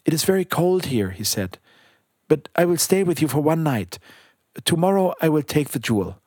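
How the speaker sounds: a hint of a little bird voice; lightly voiced little bird, kind. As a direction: gently give in like a small bird.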